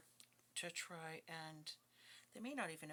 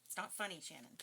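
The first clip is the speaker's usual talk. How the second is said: scolding self while laughing; 5 dB louder than usual. Real, not acted. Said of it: "I shouldn't laugh".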